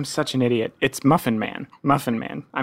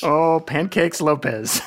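laughing; slower than usual. Real, not acted. Laughs while saying nickname.

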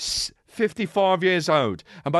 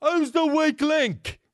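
mock dramatic; 8 semitones higher, much slower than usual. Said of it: "dramatic Ramsay".

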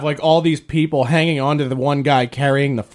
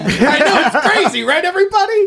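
cheesy tour guide; 13 semitones higher, 3 dB louder, faster than usual. Retold or imitated. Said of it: "the guy's like".

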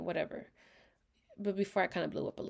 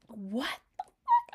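slow, louder, disbelieving what the fuck; a mock outraged cry, dragged out; retold outraged what the fuck; 5 semitones higher, 5 dB louder, slower than usual. Retold shock at boyfriend's remark.

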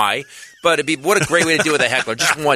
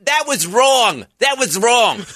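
mock scolding lady; 9 semitones higher, 4 dB louder, slower than usual. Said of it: "she goes".

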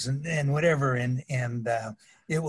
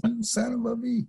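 mock angry retort; 9 semitones higher, 3 dB quieter than usual. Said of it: "And I was furious".

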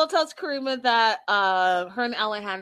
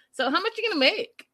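eager quote; 5 semitones higher, faster than usual. Retold or imitated. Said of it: "he's also like".

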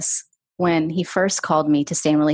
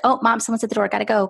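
bright, higher brush-off to mom; breezy fake excuse; 5 semitones higher, faster than usual. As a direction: hurry her off the phone with a cheerful excuse. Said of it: "be like".

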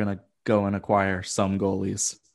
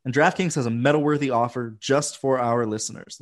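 ad read; 3 semitones higher than usual. Acted. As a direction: sell it like a radio spot. Reads sponsor ad.

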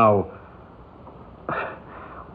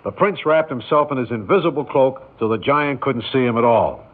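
put-on reading to children; 4 semitones higher than usual. Reads bedtime story to boy.

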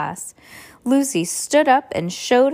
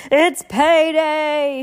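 slow, higher and louder; gleeful; 7 semitones higher, 5 dB louder, much slower than usual. Acted. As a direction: draw it out with glee. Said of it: "she thought".

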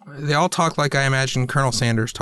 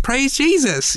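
put-on high-pitched camp Southern accent; mock Southern twang; 12 semitones higher, slower than usual. Man mimicking his friend's failed Southern accent, campy mock twang. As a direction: imitate a campy, badly faked Southern drawl, pitched way up. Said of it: "his Southern ends up sounding more just like homosexual than Southern".

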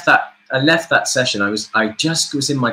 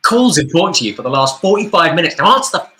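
mock annoyed friend; 5 semitones higher, 3 dB louder than usual. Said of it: "texts from my friends every now and again saying".

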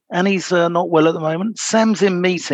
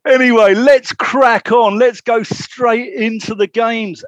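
louder, deliberately slowed, over-enunciated; slow and clear; 5 semitones higher, 4 dB louder than usual. Pretend. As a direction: spell it out slowly for the Northern guest. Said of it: "can you speak a little bit more slowly and clearly".

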